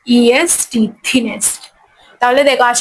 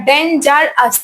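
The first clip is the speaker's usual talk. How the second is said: "ডেঞ্জারাস" in three detached beats; syllable by syllable; much slower than usual. Shown as a demonstration. Teacher answering three times, "ডেঞ্জারাস" split into syllables. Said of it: "তিনবার".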